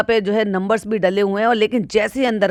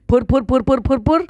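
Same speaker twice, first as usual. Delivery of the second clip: mock flapping sound; 3 semitones higher than usual. Imitating hair blowing in wind.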